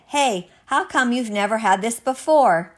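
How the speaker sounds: high, loud, eager asking; amazed question. Acted. Finn to his mom after tasting soup, amazed. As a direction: ask it in happy surprise.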